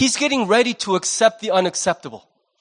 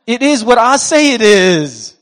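emphatic declaration; 6 dB louder than usual. Acted. Preacher voicing God's answer.

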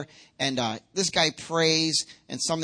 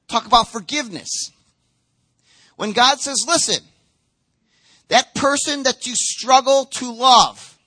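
raised, emphatic sermon delivery; forceful preaching; 6 semitones higher, 7 dB louder than usual. Real, not acted. Pastor urging congregation to forgive by faith, forceful preaching. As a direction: preach it out, punching key words.

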